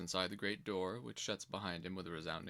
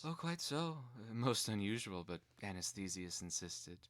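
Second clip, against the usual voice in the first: a lightly voiced simpering sister, sweetly mocking; coy nun; 3 semitones higher than usual. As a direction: play innocent and pleased with yourselves. Shepherds voice coy reply.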